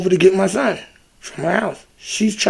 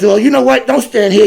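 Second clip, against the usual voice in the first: louder, sharp mock cop command; cop snapping an order; 4 semitones higher, 6 dB louder than usual. Officer ordering the speaker to move, loud snap. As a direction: bark it like an annoyed cop.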